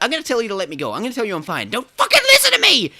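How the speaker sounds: rising to a high yelled last line; hammed-up desperate plea. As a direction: beg like a man about to lose it. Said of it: "he's like".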